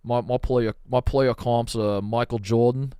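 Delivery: hammy attempt at an Aussie; wobbly Australian accent. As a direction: introduce yourself in mock Australian. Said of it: "can you do an Australian accent".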